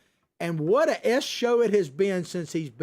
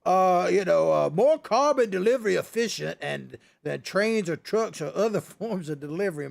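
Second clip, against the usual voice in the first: mock Kerry. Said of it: "when he's up there going".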